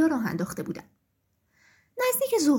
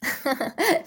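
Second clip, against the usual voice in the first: rooster's laugh. A narrator's reading. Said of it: "خروس خندید".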